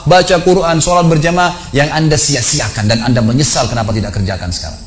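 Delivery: renungan penuh penyesalan. Retold or imitated. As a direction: stretch the opening words like a solemn muhasabah. Memandu peserta jadi jenazah, menyesal. (renungan muhasabah penuh penyesalan)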